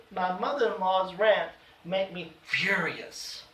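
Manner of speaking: slow down and lean on "furious"; drawn-out, emphatic "furious"; "furious" stretched out for emphasis; emphasis on a point. Shown as a demonstration. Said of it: "to emphasize a point".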